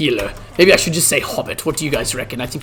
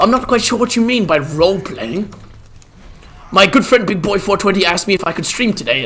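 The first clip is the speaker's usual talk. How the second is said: lightly voiced old wizard, a touch higher; hint of a bumbling old wizard; Gandalf role-play; 9 semitones higher, 6 dB louder than usual. Streamer playing Gandalf for chat, lightly voiced old wizard.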